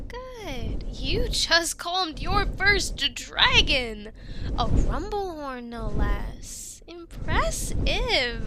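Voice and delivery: drawn-out delighted praise; excited praise. Acted. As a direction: beam with pride at them. Praising calmed dragon.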